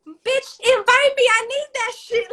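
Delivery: high, loud comic demand; hammed-up, insistent protest; acted plea. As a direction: demand it from a neglectful friend. Acts out begging friends for an invite.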